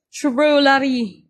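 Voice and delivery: slow, loud stretched word; drawn out. Real, not acted. Drawn-out photo cue.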